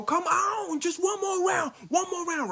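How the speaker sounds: high, loud eager plea; eager begging. Retold or imitated. Inoue pleading with the ref to keep going.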